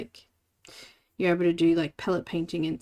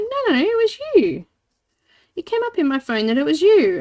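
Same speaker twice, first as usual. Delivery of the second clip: high, loud mimicry of an insistent mum; imitated insistence; 11 semitones higher, 10 dB louder than usual. Mum insisting to her child the message was theirs, imitated insistence. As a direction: play mum protesting, pitched well up.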